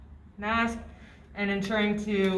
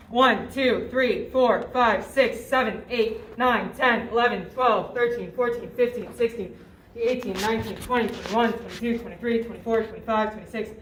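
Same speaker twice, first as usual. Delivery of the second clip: loud, steady rhythmic count; counting cpr compressions; 4 dB louder than usual. Shown as a demonstration. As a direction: count out each chest push firmly. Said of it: "continuing compressions".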